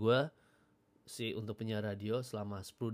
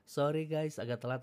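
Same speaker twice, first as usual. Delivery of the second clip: announcer apology; 5 semitones higher, 4 dB louder than usual. Retold or imitated. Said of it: "udah gitu ngasih excuse kenapa telat".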